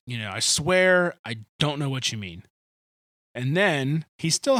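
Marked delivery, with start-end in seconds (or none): 0.3-2.4 Peter pleading harder, mildly; escalating denial. Retold or imitated. Peter denying to the servants, with a light escalating protest. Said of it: "his response escalates".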